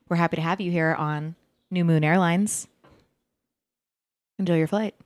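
soft, subtle in-flight announcement; calm cabin announcement voice; flight attendant announcement. Pretend. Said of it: "Nailed it".

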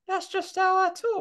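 very high, slow squeaky falsetto; little boy's voice. Acted. Man maintaining his disguise, fake little boy's voice. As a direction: keep up the fake child voice. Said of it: "Why do you do that voice for?".

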